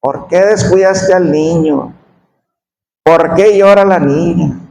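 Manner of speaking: desperate scolding. Retold or imitated. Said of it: "en su desesperación".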